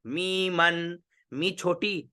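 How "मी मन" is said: मी मन drawn out, both syllables held level; pronunciation model. Shown as a demonstration. Teacher answers how it is said, drawn-out मी मन. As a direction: chant मी मन evenly as mee-man. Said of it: "उच्चारण क्या हुआ".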